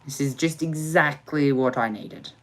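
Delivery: dripping sarcasm, mock delight; sarcastic praise. Real, not acted. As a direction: praise the disaster ironically.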